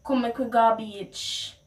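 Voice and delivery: broad Jamaican Patois phrasing. Shown as a demonstration. Teacher shows the beach phrase in Jamaican Patois. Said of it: "that is what some of us would say".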